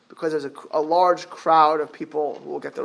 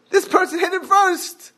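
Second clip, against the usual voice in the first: put-on higher toddler voice, lightly done; imitating toddler; 12 semitones higher, 3 dB louder than usual. Father quoting his toddler son's excuse, lightly childish voice. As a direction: play the two-year-old's excuse. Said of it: "what was his answer?".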